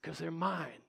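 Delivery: hushed, high, falling away; tender restatement. Real, not acted. Preacher speaks as a loving parent, softly. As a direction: drop from the shout to a soft echo.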